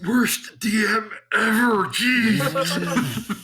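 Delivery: laughing. Real, not acted. Player teases the DM.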